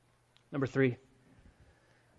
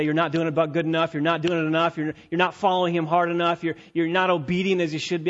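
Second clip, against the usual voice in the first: guilt-tripping; 4 dB louder than usual. Pretend. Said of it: "I can guilt you into this and say".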